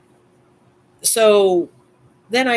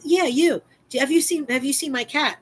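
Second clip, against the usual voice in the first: put-on dotty absent-minded old lady; 11 semitones higher than usual. Neighbor insists on her cat.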